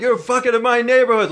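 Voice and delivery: high, loud furious yelling at the car; loud outraged stranger banging on the window; angry man's shout. Retold or imitated. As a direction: bellow it like an enraged neighbor. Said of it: "banging, like".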